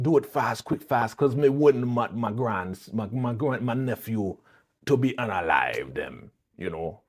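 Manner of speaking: bad fake Jamaican patois; imitated Jamaican accent. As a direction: stumble through it in a mock Jamaican accent. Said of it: "Jamaican accent".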